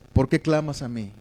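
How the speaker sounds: lightly acted fatherly care, no blame; tender question. God coming with this question in the preacher's reading, tender. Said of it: "Dios es tierno contigo".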